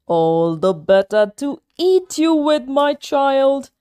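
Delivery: lightly voiced wolf, menacing; the wolf relishing the kill; sly wolf. Wolf in Granny's bed about to eat the girl, sly and menacing.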